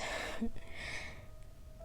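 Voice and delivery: low-key, whispery chuckle; soft laugh. Acted. Amused at being taken for boss's girlfriend, soft laugh. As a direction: laugh quietly under the breath.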